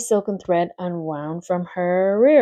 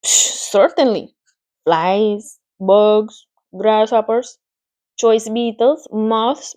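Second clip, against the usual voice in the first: Charlotte savouring her menu, rising higher; relishing spider; 4 semitones higher, 4 dB louder, slower than usual. Acted. Charlotte lists her favourite foods to Wilbur, relishing. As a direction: list each bug like a delicacy.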